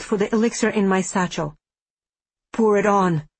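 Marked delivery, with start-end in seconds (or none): 2.5-3.3 spoken through clenched teeth. Acted. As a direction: force it out past a locked jaw. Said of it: "he said with clenched teeth".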